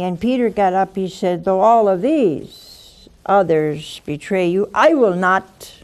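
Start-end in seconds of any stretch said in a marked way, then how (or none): 1.4-5.7 bravado. Retold or imitated. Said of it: "Peter is not very bravado".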